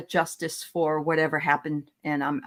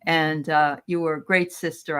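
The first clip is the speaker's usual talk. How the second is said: a touch of sincere, gentle earnestness; understated heartfelt message; serious brother; 2 semitones lower than usual. Retold or imitated. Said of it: "And then seriously".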